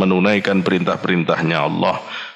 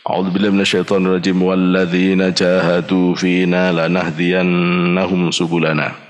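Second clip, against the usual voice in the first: Quran recitation; 3 semitones lower than usual. Acted. Preacher reciting Quran verse to audience, melodic chant.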